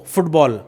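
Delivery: फुटबॉल with a quick, short "fut"; brief "oo" in फुटबॉल, falling; short-vowel फुटबॉल. Shown as a demonstration. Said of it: "ये shorter sound हो जाता है".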